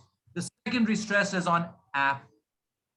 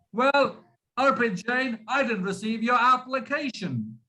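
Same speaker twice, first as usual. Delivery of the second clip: higher-pitched, crisp show of an English accent; demonstrated English accent; 4 semitones higher than usual. Shown as a demonstration. Teacher addresses Arpit with a sample sentence, demonstrated English accent. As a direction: put on a model English accent, projected a little. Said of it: "Doesn't this sound like an accent?".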